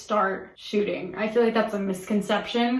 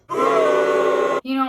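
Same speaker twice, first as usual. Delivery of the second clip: sudden loud shout; 5 semitones higher, 6 dB louder than usual. Real, not acted. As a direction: blurt it out loudly. Loud outburst mid vlog.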